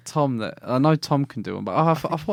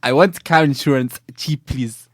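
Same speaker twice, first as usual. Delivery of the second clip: lightly put-on African accent; mock African accent. Voicing insurance ad customer, light African accent. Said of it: "like an African person".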